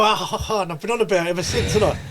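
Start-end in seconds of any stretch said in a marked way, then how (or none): 0.0-0.6 higher-pitched acted-out "ah, ha, ha"; imitated laugh. Fan telling the video maker how he reacts, imitated laugh. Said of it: "I sit and go".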